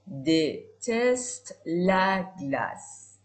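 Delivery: very slow, drawn out sentence; very slow example. Shown as a demonstration. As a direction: spell it out for beginners. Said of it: "slow example sentence".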